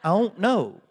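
"I don't know" as one high, loud run-together word; Oklahoma one-word slur. Shown as a demonstration. Pastor shows his Oklahoma answer to dad, "I don't know" slurred as one word. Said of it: "be in Oklahoma to really get that".

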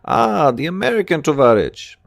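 high, bright calling out to a friend; young woman hailing from the corner, high and calling; hailing woman's voice. A narrator's reading. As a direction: call across the corner to him. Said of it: "a feminine voice hails me".

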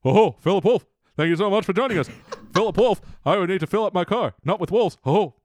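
quick, excitable riffing impression; Robin Williams. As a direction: bounce through it like a zany comic. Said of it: "Can you do Robin Williams?".

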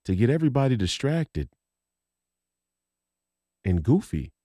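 ordinary delivery

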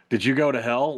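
imitating someone failing to keep hushed; mimicked normal volume. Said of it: "at a normal speaking volume".

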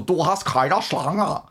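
slow, silly mock reading without German accent. Shown as a demonstration. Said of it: "As opposed to".

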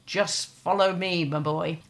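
imitating an Irish priest's accent; broad Irish accent. Monseigneur to the father outside Saint Peter's, Irish accent. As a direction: say it with a retold Irish lilt. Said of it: "a broad Irish accent".

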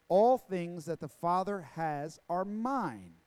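measured, deliberate Bible reading; preacher reading aloud with weighted key words; scripture reading. Acted. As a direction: read the passage solemnly, phrase by phrase. Reads scripture aloud to congregation.

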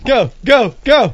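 high, loud squeaky go go go; excited helium cheer. Real, not acted. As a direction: squeal them on to go. Urging after helium hit.

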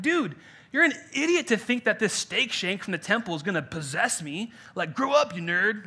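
playful imitated jeer; scornful mock quote. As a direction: scoff like an exasperated peer, hammed up lightly. Acted scornful church member quote.

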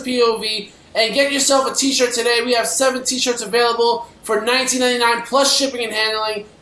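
upbeat sponsor ad read; infomercial. Acted. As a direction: sell the t-shirts like an ad.

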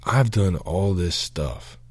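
retold prayer in the shower, a mild angry protest; angry at God. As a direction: lay out your grievance to God, each word pressed. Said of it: "I was angry with him too".

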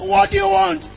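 high, coaxing father's question; a father coaxing his child; father asking a crying child. Retold or imitated. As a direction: ask like a dad bending to a crying kid. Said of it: "And the father said".

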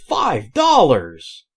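loud, slow, drawn-out sales yell; shouted sign. Retold or imitated. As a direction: bellow it like a pushy sale sign. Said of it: "they have these signs up".

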